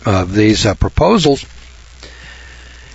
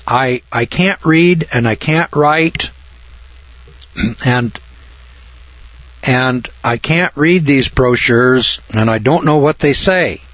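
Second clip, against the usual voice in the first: ashamed confession; 2 semitones higher than usual. Acted. John admits he can't read.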